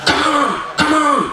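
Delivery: lightly voiced annoyed teacher; exasperated teacher. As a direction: sigh it out at the student.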